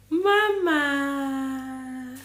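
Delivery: loud, high call of Mama. Real, not acted. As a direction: call out warmly across the room. Calling out greeting on live.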